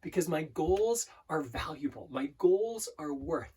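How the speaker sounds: slow, deliberate mantra with pauses; broken into sections. Shown as a demonstration. Coach repeating an affirmation in sections, slow and deliberate. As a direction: dwell on each phrase, drawing it out. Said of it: "repeating in different sections".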